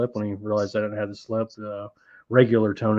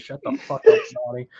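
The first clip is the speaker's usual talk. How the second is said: Walter yelling. Retold or imitated. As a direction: bark it down at a friend who keeps talking. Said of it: "Walter says".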